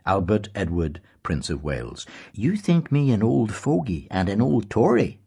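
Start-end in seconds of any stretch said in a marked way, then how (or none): 2.3-5.2 put-on higher, louder voice of a stern old headmaster; thoughtful old Tory. A narrator's reading. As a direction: lecture as a proud old Tory. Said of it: "his thoughtful voice said".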